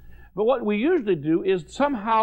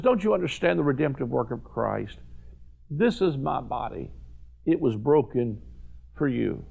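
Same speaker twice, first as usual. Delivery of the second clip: low and gentle, slowing at the end; a touch of hushed tenderness; tender Jesus; 4 semitones lower, 3 dB quieter than usual. Acted. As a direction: offer it quietly, like a gift. Preacher voices Jesus offering body.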